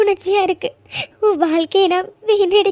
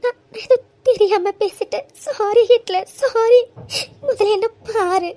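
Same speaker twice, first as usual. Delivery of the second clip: tearful apology; 2 semitones higher than usual. Acted. Wife apologising through tears.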